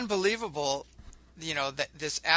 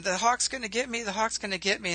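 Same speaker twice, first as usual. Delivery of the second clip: mock scream; 6 semitones higher than usual. Storyteller voices a rabbit fearing the hawk, mock screaming. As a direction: play a rabbit crying out in alarm. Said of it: "he starts screaming".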